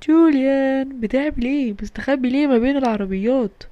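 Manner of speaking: loud call of a name; calling for Julian from a distance. Acted. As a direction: shout his name down the street.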